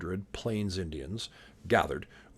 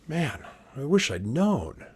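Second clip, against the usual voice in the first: rueful Custer; 5 semitones higher than usual. Shown as a demonstration. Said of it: "You think Custer would have said that?".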